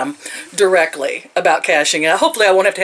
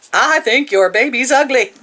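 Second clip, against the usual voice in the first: laughing through it; 4 semitones higher than usual. Retold or imitated. Mock insult to coworker, laughing.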